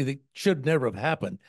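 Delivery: ordinary talk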